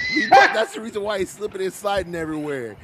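after laughing hard. Real, not acted. Laughing shouts while roasting friend.

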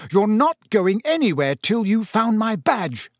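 high, indignant moderate yell. A narrator's reading. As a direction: lay down the threat in agitation. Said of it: "yelled Percy".

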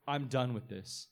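rising indignation, pleading with God; indignant outburst. Retold or imitated. A human being protesting to God, rising indignation. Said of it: "where a human being would be like".

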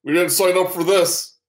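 panicked orc. Acted. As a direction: whine it as you flee. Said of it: "And he goes".

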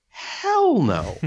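high, loud mock refusal; emphatic refusal. Refusing his wife's fire pit invite, loud. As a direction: blurt it out flatly refusing. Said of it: "I'm like".

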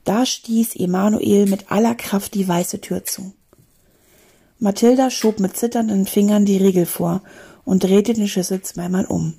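animated storybook reading; story narration. A narrator's reading. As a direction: read an adventure to a class, clearly articulated. Reads a story aloud.

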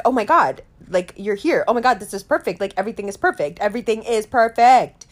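high, loud delighted gushing; excited gush. Retold or imitated. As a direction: burst out in giddy disbelief. Overjoyed seeing Johnny Depp in dream.

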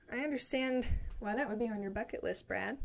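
talking short of breath. Real, not acted. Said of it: "Sorry, I'm running out of breath".

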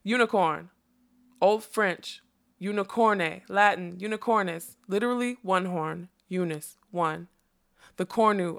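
measured reciting with pauses between items; very clearly. A narrator's reading. Butterfly defining "unicorn" for her, very clearly. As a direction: enunciate each term like a dictionary entry. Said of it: "very clearly".

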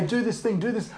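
softly mimicked serpent urging; imitated whispering. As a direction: murmur it like a tempter at the ear. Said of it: "whisper in my ear and say".

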